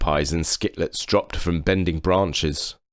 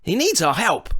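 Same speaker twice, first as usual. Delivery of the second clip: high voiced gentle forest creature. A narrator's reading. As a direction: lift it high and kindly, a tall hairy-kneed creature. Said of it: "Cowslip agreed".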